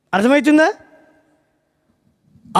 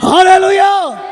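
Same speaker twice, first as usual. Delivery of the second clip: a full-chested, louder హల్లెలూయా; louder hallelujah; 6 semitones higher, 5 dB louder, much slower than usual. Real, not acted. Preacher lifts the congregation, హల్లెలూయా said louder. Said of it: "కొంచెం గట్టిగా చెప్పాలి".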